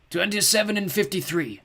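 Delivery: high, slow cracked croak; a grumpy creature ordering takeaway. Acted. Skellig naming his order, slow and cracked.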